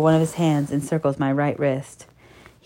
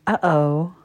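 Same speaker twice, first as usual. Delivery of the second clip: lightly lowered, soft mock-rebuke; understated growl; 3 semitones lower, 4 dB quieter than usual. A narrator's reading. Narrator voices man catching broken rule, mild growl. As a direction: growl it gently, in control. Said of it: "he growls".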